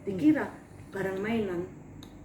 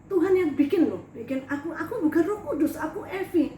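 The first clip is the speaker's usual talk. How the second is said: insistent protest; 4 semitones higher, 5 dB louder than usual. Retold or imitated. Arguing with God, raising her voice.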